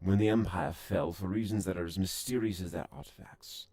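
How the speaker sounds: alien lore speech. Acted. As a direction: proclaim the old empire's fall.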